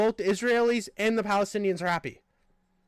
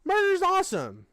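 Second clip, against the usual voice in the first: mocking someone who cheers the killing; mock approval; slower than usual. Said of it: "look at that and be like".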